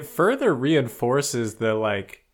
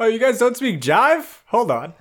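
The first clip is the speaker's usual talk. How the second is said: much higher, louder mock cool guy; 12 semitones higher, 6 dB louder than usual. Friend voices hero offering to translate, mock cool. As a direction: play it smug and casual, laughing.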